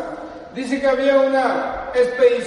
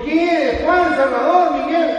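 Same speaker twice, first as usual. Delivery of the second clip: higher, louder calling out to an unknown voice; startled questioning; 5 semitones higher, 4 dB louder, slower than usual. Acted. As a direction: act out a climber calling to whoever answered. Lost climber answers unknown voice. (llamando sobresaltado, con voz más aguda)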